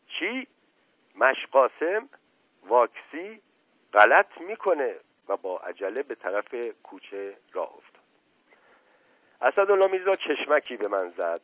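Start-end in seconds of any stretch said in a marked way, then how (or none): 0.1-5.0 incredulous high questions building to an outburst; outraged cry. A narrator's reading. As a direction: cry out in disbelief, pitch jumping up. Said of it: "سپس فریاد زد". (فریاد ناباورانه و خشمگین)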